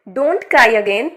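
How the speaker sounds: don't cry again, drawn out slowly; slow model reading. Shown as a demonstration. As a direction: spell it out slowly for students. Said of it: "जब कोई रोता है तब हम बोलते हैं". (धीरे-धीरे समझाते हुए)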